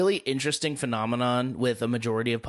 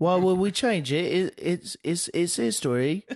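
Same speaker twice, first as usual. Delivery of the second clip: higher, stammering Cockney protest; badly faked Cockney, pitched up; mock Cockney; 4 semitones higher than usual. Friend defending old cobblestone roads, mock Cockney. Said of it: "I like Cockney".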